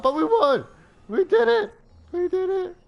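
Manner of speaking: high, loud victory shout; excited shouting. Real, not acted. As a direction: scream with pure joy at winning. Winning the game.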